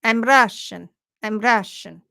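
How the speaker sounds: mock Russian accent, pressing on the word Russian. Joking with co-host about failed accents, mock Russian accent. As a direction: put on a rough Russian accent. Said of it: "more like a Russian accent".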